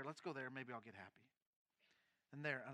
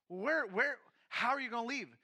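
higher, louder worried questions; worried wife; 6 semitones higher, 8 dB louder than usual. Retold or imitated. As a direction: press him for answers. Wife questioning his leaving.

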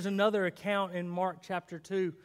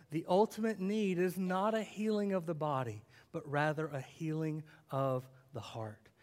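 put-on softer second pass for the children; soft repeat; 5 semitones lower, 6 dB quieter than usual. Shown as a demonstration. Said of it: "repeated line, softer".

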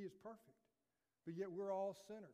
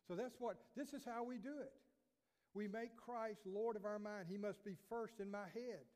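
rising preaching fervour; 3 semitones higher than usual. Acted. Pastor urging congregation to make Christ Lord, fervent. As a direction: lift it up and drive it home.

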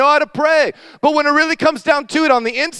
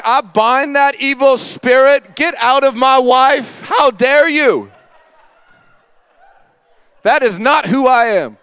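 louder and slow, casting out a demon in jest; mock deliverance prayer; 3 dB louder, slower than usual. Husband jokingly rebukes the spirit in his wife, loud and slow. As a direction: rebuke the spirit like a hammed-up preacher.

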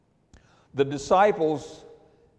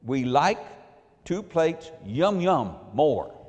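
simple broken english. Retold or imitated. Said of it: "I'm just trying to keep it simple".

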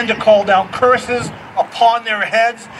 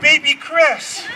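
put-on toddler voice; 6 semitones higher, slower than usual. Toddler blaming, laughing.

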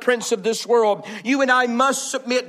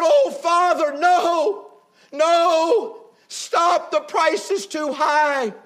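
crying out; 4 semitones higher, much slower than usual. Acted. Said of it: "he cried out".

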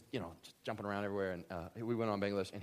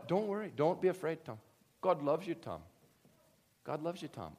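lightly imitated Bangladeshi pastor, raised pitch; Bangladeshi accent; 5 semitones higher than usual. Preacher imitating pastor reassuring him, light Bangladeshi accent. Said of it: "I meant to do a Bangladeshi accent".

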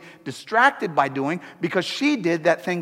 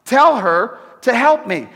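mock angry complaint; 5 semitones higher, 5 dB louder than usual. Martha demanding Jesus make her sister help, hammed-up indignant. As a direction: voice rising higher and louder, tell her off. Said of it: "She says to Jesus".

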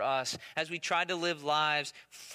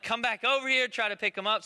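put-on higher, louder call to a child; retold calling back; 5 semitones higher, 4 dB louder than usual. Father to daughter walking off, retold calling back. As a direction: call her back, lightly acted.

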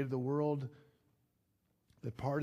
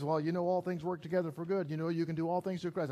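preachy friend; 4 semitones higher, faster than usual. Retold or imitated. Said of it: "If someone says".

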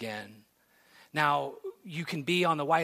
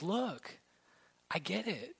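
gentle; 5 semitones higher, 6 dB quieter, slower than usual. Acted. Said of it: "He's just simply gently redirecting them".

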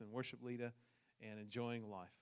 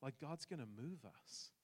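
quiet; 2 semitones higher, 7 dB quieter than usual. Retold or imitated. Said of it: "she's like".

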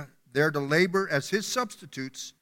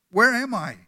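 higher, louder, more alarmed repeat; more urgent dazed man; 6 semitones higher, 4 dB louder than usual. Acted. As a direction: push the question up, growing anxious. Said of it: "he opened his eyes and asked".

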